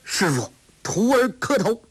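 high, joyful bow of a new disciple; joyful young man. A narrator's reading. Young man greeting his new master, joyful and high. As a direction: kneel and greet the master with glee. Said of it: "声音中充满了喜悦之情".

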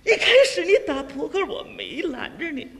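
angry wife. Acted. Wife reproaches card-playing husband, angry. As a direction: reproach him as a put-upon wife. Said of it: "爱人跟我就火了".

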